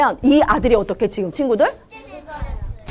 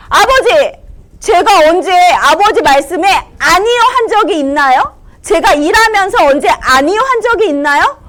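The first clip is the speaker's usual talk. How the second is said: raised, higher angry protest; angry older son; 5 semitones higher than usual. Acted. Older son complaining to his father, angry. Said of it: "화가 난 목소리로".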